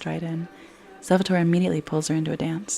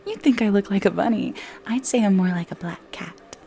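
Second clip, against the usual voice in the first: playing it off; 3 semitones higher than usual. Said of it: "She tries to play it off".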